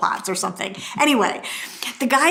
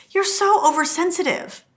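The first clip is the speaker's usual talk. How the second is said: huffy retort, pitched higher; 7 semitones higher than usual. Retold or imitated. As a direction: toss it off like an annoyed wife. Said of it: "she got huffy".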